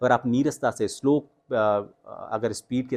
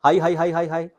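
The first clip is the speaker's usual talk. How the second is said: हाई sung out higher and louder; high pitch drill; 6 semitones higher, 4 dB louder than usual. Shown as a demonstration. Coach demonstrates the high-pitch drill for students. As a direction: lift each हाई high and bright. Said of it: "शुरुआत आप इससे करें".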